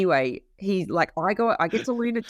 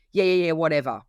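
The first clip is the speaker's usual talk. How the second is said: dismissive; 3 dB louder than usual. Retold or imitated. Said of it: "so annoyed that my afternoon".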